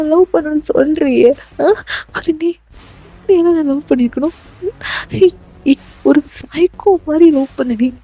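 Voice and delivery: mildly upset, protesting heroine; frightened pleading heroine. Acted. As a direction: plead with an obsessive lover.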